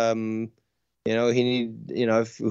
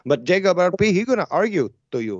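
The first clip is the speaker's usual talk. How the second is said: put-on Colombian accent; 3 semitones higher than usual. Caller praising Ken's accent, in a mock Colombian accent. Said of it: "We sound extra Colombian now".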